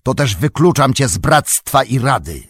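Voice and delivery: loud, high and majestic; a wizard proclaiming his return; powerful commanding. A narrator's reading. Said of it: "krzyknął głosem potężnym i władczym". (głośno, potężnie i władczo)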